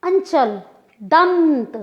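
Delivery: अंचल, दंत with full nasal consonants, drawn out; anusvara demo. Shown as a demonstration. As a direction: stretch अंचल, दंत through the nose. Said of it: "खींच के बोलना पड़ा".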